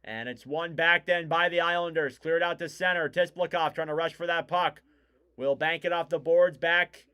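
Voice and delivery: lively, measured hockey commentary; live play-by-play. Real, not acted. Commentator calls Cizikas versus Nelson face-off, live play-by-play. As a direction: call the face-off and the rush as they happen.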